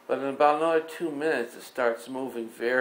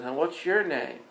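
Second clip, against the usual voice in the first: higher, lightly voiced small boy; little boy asking back; 6 semitones higher than usual. Little boy John asks Jesus his name, higher child voice. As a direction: ask it back like a curious little kid. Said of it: "and John goes".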